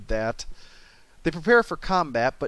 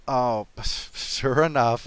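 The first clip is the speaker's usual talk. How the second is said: laughing; much slower than usual. Real, not acted. Laugh heard, slow.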